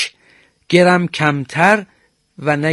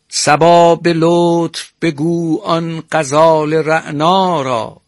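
slow, measured poetry recital; reciting verse; slower than usual. Shown as a demonstration. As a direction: read the line like a classical poem, savoring each word. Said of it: "در پیرامون تقطیع این غزل".

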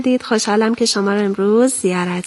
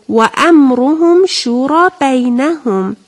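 Quran recitation; 3 semitones higher, 4 dB louder, slower than usual. Shown as a demonstration. Teacher recites the verse phrase.

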